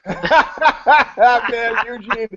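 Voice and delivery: a chuckling head-shake; amused pitying friend. Retold or imitated. Porn star laughs at Eugene's naive question, fondly mocking.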